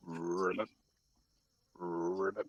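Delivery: low, soft croaking ribbit; frog croak. A narrator's reading. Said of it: "croaking starts happening".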